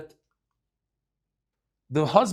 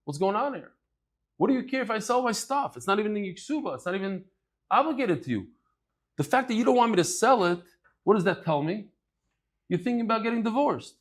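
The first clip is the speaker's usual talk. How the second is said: suspicious husband; 5 semitones higher, faster than usual. Retold or imitated. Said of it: "The Omar lo".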